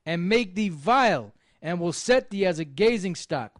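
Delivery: measured, solemn Bible reading; steady solemn reading voice; scripture reading. Acted. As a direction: read it like the King James from the pulpit. Reads Nahum chapter aloud.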